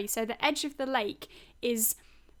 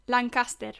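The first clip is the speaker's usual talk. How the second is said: Lancaster said the Spanish way; Spanish accent; 3 dB louder than usual. Pretend. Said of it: "how would you say that in a Spanish accent".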